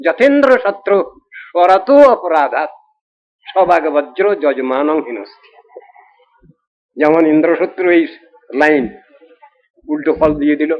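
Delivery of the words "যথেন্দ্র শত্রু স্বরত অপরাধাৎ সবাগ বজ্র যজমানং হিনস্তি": slow scripture recitation. Acted. Quoting Sanskrit verse as example.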